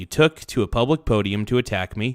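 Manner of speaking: normal talking voice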